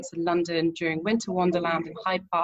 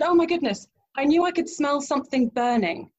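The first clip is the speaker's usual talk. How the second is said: higher, louder flustered realisation; hint of a panicky boyfriend; 6 semitones higher, 4 dB louder than usual. Boyfriend realising the blender melted, higher and louder fluster.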